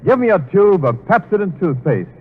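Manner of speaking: smooth announcer selling toothpaste; bright commercial pitch; ad read. Acted. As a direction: sell it like a radio announcer.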